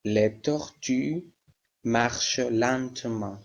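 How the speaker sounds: drawn out, each syllable slowly; slow model. Shown as a demonstration. Teacher to her Spanish-speaking class, slow and clear. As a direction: say it slowly so students hear each sound. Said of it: "teacher modelling French sentence".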